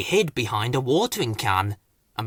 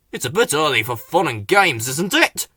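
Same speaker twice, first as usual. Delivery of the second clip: mildly cross; a touch of grumpy scolding; lightly irritated complaint; crossly. Acted. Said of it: "he said crossly".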